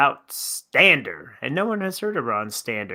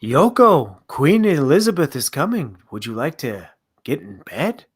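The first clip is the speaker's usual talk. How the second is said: put-on British accent imitating a singer; 4 dB louder than usual. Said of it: "don't put that accent away".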